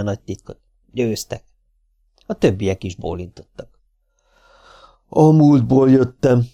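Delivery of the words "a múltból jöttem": slow, loud, resonant proclamation; solemn warlord revealing himself; booming deep voice. A narrator's reading. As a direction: intone it like a hero from the past. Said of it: "mondta kongó, mély hangon".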